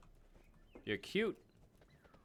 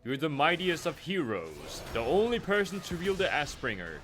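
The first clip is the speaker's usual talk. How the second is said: epic quest giver; 3 semitones higher, 5 dB louder than usual. Pretend.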